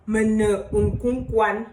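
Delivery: Mene unkounkwan slow, stress on unkounkwan; slow repeated demo. Shown as a demonstration. Teacher repeats the phrase slowly for class. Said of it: "On peut dire".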